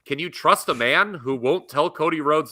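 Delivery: lightly voiced ominous ad narrator; political attack ad. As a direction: read it like a smear campaign spot. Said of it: "Attack ad voice".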